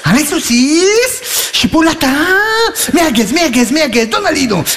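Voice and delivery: high, slow coaxing call; coaxing sausages. Acted. Calling to the sausages on the grill, high and drawn out. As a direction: coo at the sausages like pets.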